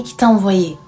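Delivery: tearful repeat. Retold or imitated. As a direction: let the question sink back down in tears. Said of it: "elle est restée à pleurer et à dire au mec".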